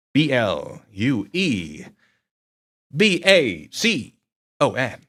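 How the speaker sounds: spelled out letter by letter, slowly; slow and clear, each letter separated. Shown as a demonstration. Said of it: "I will say that slower".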